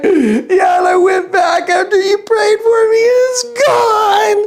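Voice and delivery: play-acted very high crying voice, sob-choked, drawn out. Retelling what a man said to you while he sat crying, imitating someone crying. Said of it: "he's sitting there just crying".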